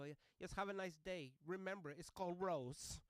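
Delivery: put-on loud, high accented farewell, slowing at the end; pointed lady passenger. Passenger leaving driver with correction, loud insistence. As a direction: press the correction home.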